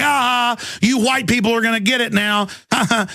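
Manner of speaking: jeering taunt. Retold or imitated.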